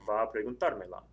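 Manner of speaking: "preguntármela" stressed on "tár"; accent on the AR. Shown as a demonstration. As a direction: lean on "tár" in "preguntármela", the ending light. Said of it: "add an accent mark to it".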